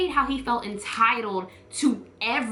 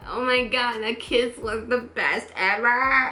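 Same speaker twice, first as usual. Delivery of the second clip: imitated drunk girl. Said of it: "the drunk voice memo".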